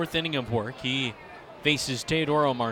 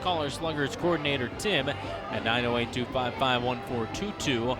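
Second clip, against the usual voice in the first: ad read. Acted. Sponsor ad read.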